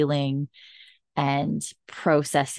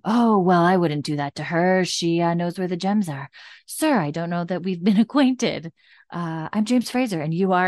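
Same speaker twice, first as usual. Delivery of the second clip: Jamie's polite act; 2 semitones higher than usual. Retold or imitated. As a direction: play innocent and courteous to hide the threat. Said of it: "Jamie drops the act".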